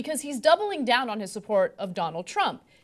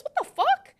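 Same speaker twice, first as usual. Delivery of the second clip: mock outrage. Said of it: "be like".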